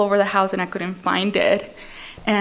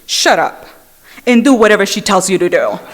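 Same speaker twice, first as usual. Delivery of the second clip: retold sponsor order; 5 dB louder than usual. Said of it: "he says".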